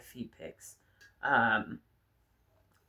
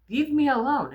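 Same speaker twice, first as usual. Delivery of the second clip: retold yell; 9 semitones higher, 6 dB louder than usual. Retold pool fight with bully.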